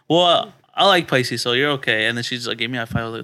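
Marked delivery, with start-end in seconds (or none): 0.1-2.1 put-on quoted girl. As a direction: pitch it up and stretch it out. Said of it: "She's like".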